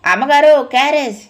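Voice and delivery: put-on delivery boy hollering to the house; loud call. A narrator's reading. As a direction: call out so the old folks can hear. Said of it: "ముసలాళ్లకు వినిపించేలా గట్టిగా అరిచాడు".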